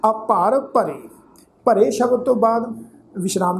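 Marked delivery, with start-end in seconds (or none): 0.1-1.0 falling close on ਭਰੇ with a pause; pause after phrase. Shown as a demonstration. Teacher shows where to rest, pause after ਭਰੇ. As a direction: read ਅਪਾਰ ਭਰੇ as one unit, then stop after ਭਰੇ. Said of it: "ਵਿਸ਼ਰਾਮ ਚਿੰਨ੍ਹਾਂ ਦਾ ਖਿਆਲ ਰੱਖਣਾ".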